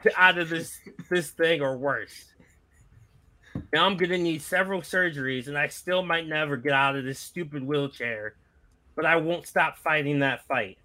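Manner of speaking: lightly voiced veteran wrestler's promo; a modest attempt at a battle-worn wrestler; Terry Funk. Host attempting a wrestling legend's promo for friends, lightly impersonated. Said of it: "trying to do a Terry Funk impression".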